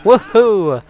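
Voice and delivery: high, loud whoop of success; celebratory cheer. Real, not acted. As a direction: cheer the lucky move. Celebrates lucky timing in game.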